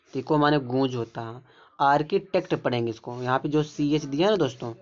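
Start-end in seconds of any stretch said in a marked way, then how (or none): 1.8-2.5 आर्किटेक्ट with a hard "k" in "arki". Shown as a demonstration. Teacher showing how CH is read, आर्किटेक्ट with "k". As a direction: say आर्किटेक्ट starting "ar-ki". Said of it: "का का sound निकल आर्किटेक्ट".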